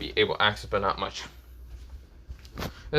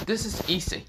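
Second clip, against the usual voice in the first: proud announcement; 5 semitones higher than usual. Acted. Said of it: "she said out loud".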